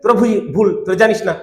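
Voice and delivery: a mock lording-it-over tone; domineering. Preacher imitating Urdu speakers talking down to Bengalis, arrogantly. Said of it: "ওরা দাপটে বলছে".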